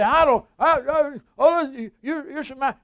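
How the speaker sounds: high, loud preacher's shout; loud fiery pulpit shout; preaching at full force. Real, not acted. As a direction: rail at the doubters from the pulpit. Preacher mocking, then shouting at listeners.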